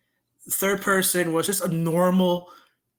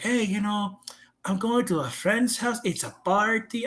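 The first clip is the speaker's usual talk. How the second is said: mock-casual, higher-pitched pitch to dad; casual coaxing; 4 semitones higher than usual. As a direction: sell the cover story lightly. Grandma coaxing dad with cover story.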